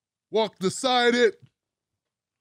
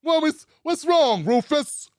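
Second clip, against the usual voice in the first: lightly voiced old-school boss, higher; Cuomo; 4 semitones higher than usual. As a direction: put on a hint of a baffled old-school man. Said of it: "That's exactly how he sounds".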